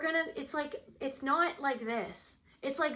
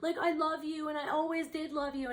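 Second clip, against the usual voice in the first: mock lovesick begging, slightly raised; pathetic pleading; 3 semitones higher than usual. Cheating husband begs his wife not to leave, mildly pathetic mock plea. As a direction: imitate a pitiful husband pleading. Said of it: "being very pathetic".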